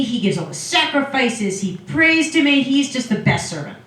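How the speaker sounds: gushing, drawn-out mock boast, pitch lifting; lightly acted boastful God, stretched-out praise; bragging God. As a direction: brag proudly about your favorite, playfully hammed up. God bragging to Satan in retelling.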